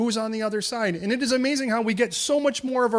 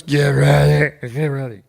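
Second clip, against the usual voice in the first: much louder, lower and slow; drunk king's command; 5 semitones lower, 11 dB louder than usual. Acted. King at his command post shouting orders at servants, loud and low.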